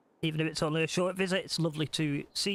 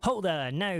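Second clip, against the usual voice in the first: lively Scotsman; 4 semitones higher than usual. Acted. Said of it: "I'm not doing a Scottish accent".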